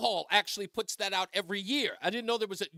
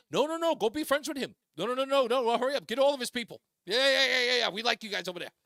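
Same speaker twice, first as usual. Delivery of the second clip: higher, louder, cheering them on; eager welcome; 6 semitones higher, 5 dB louder, faster than usual. Retold or imitated. Host shows what Democrats should say, loud eager cheer. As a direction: wave them all over, delighted. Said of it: "You should be saying".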